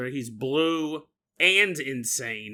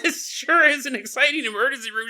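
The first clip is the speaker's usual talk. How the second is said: laughing; 8 semitones higher, 3 dB louder than usual. Real, not acted. Laughing sarcastic remark.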